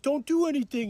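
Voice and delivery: mock the man backing down; mock whiny plea. Cellmate begging as he lets go of the hold, mock whiny. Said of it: "He's being a bitch about it".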